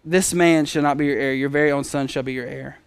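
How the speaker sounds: soft, low-key reassurance; understated, tender promise; gentle God. Retold or imitated. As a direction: quietly settle the worry, softening toward the end. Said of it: "very, very gentle".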